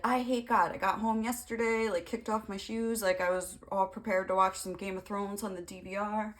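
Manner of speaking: a hint of a whiny pastor; mock pastor rant. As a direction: complain like a petulant pastor. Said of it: "And he's like".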